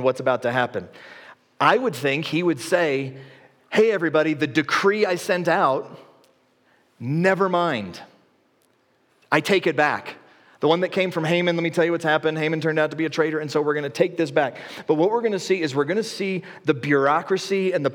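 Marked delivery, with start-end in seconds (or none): 3.7-14.6 calling out. Retold or imitated. Imagined king calling out announcement.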